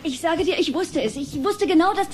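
agitated, stumbling over words; flustered rant. Acted. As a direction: vent until you lose your thread. Upset mother rants, stammers.

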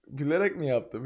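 ordinary talk, nothing marked

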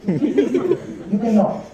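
"You cannot" stretched very slowly; slow, knowing "You cannot"; drawn-out. Shown as a demonstration. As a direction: draw out "cannot" like a sigh of defeat.

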